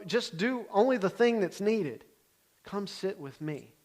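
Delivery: slow, tender coaxing; slow warm call to come sit; gentle invitation. Retold or imitated. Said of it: "He's saying to Martha".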